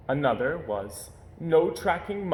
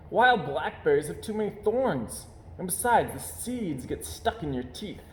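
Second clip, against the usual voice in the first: cub voice; 5 semitones higher than usual. Acted. Cub Brother voiced in story.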